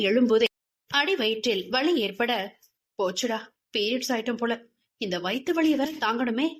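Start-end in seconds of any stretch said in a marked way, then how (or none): 3.0-6.5 a quick, put-upon grumble to herself; grumbling lament. Acted. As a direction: moan about the cramps under your breath. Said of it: "என புலம்பியவாறு". (வயிற்று வலியால் புலம்பல்)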